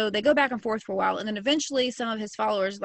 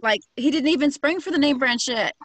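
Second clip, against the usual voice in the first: louder and higher, half laughing in disbelief; incredulous outburst; 5 semitones higher, 6 dB louder than usual. Real, not acted. Telling cohost about the Flavor Aid, incredulous and loud. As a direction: scoff at the cheap knockoff. Mocking cheap off-brand punch.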